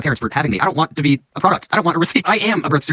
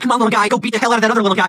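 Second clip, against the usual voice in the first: cheering fan; 8 semitones higher than usual. Retold or imitated. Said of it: "I'm gonna be rooting for people".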